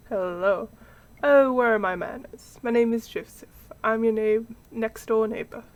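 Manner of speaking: slightly hammed-up British neighbour introducing himself; British accent. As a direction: put on an amateur British accent. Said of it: "he's getting a British accent".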